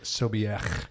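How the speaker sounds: Sobiech ending in a throaty "kh"; guttural German ending. Shown as a demonstration. Co-host showing the phone copied him, Sobiech with throaty ch. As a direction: say "Sobiech" with a scraped final ch, as in Bach. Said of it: "like something I did earlier".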